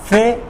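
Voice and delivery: फेमस broken in two, फे, long pause, मस; teacher splitting फेमस with a wide gap in the middle; syllable by syllable. Shown as a demonstration. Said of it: "has two syllables".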